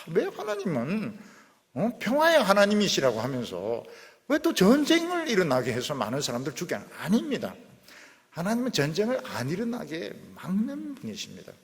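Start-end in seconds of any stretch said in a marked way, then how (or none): 0.1-6.9 higher-pitched protesting question; indignant challenge. Acted. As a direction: voice an objector challenging God, raised pitch. Preacher voices an indignant objection to God.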